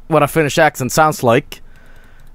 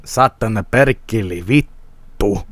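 slow, lower mock-Finnish swearing; 5 semitones lower, slower than usual. Streamer joking around with Finnish curses, mock Finnish accent. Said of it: "can I speak Finnish?".

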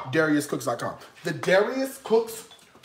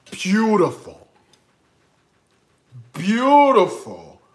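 gushing; 3 dB louder than usual. Acted. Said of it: "gushing over the Dutch oven".

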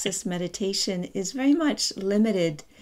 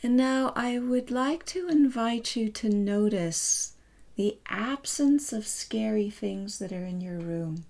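unhurried, calm guiding voice with long pauses; measured meditation instructions; guided meditation; 4 dB quieter than usual. Real, not acted. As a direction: gently lead listeners through noticing, leaving space.

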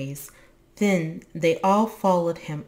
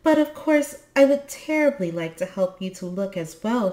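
higher, louder, mildly anxious offer; a little anxious; 5 semitones higher, 5 dB louder than usual. A narrator's reading. Tulipa turns to Moominmama, a little anxious. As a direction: offer help with a touch of worry. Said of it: "she became a little anxious".

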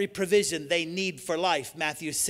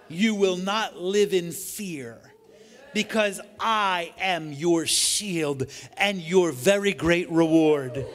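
louder, slowed proclamation; God's promises voiced; 3 dB louder than usual. Shown as a demonstration. Preacher voicing God's promises to listeners, solemn proclamation. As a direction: declare it as God's own promise. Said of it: "Try these promises on for size".

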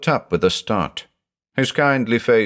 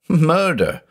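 murder cried much higher, near breaking; rising anguished cry; 9 semitones higher than usual. A narrator's reading. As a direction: let the repeat climb into horror. Judge's anguished outburst.

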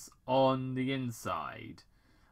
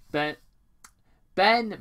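much higher, louder insistence; frustrated Major; 9 semitones higher, 10 dB louder than usual. Acted. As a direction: try again, pushing. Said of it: "Major Bennington continued".

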